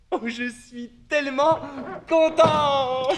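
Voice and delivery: thrilled. Acted. Child thrilled about toy car.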